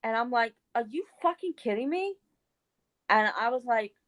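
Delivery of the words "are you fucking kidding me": high-pitched retold disbelief; incredulous outrage. Retelling her reply to the accusing friend, incredulous.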